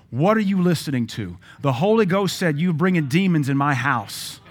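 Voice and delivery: mother's loud, stern interrogation; retold scolding mother. Retold mother barges in, confronting son.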